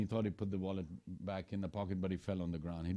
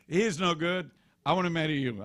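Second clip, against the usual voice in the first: voiced Shurpanakha; 7 semitones higher, 5 dB louder than usual. Shurpanakha voiced pleading to Ram.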